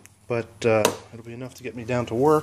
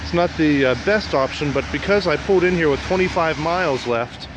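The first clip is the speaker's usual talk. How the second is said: shouting over machinery. Real, not acted. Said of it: "sorry for the noise for the machines".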